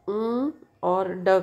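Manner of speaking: "उम" as a held m hum, then "ड" as a short d sound; separate sounds demonstrated. Shown as a demonstration. Teacher showing which consonant sounds are heard, sounded separately. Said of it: "का आ रहा है sound".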